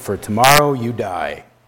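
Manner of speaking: muttering under the breath. Recalling the first day of the week, retelling a mumble under breath. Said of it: "under my breath I mumbled".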